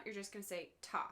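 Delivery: quick, clipped ta for a quarter note; one short beat, ta. Shown as a demonstration. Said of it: "every time you see a quarter note".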